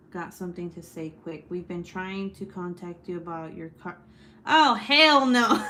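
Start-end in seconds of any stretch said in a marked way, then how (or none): 4.4-5.6 loud, slow, drawn-out shout of shock; startled shout. Real, not acted. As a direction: let it rip, really spooked. Startled by a scary message.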